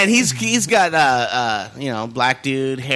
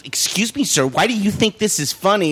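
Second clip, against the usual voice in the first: higher, offended scolding; mock indignant woman; 4 semitones higher than usual. Imitating the angry rich woman scolding the coworker for laughing. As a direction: huff it like she's insulted. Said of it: "she was fucking pissed".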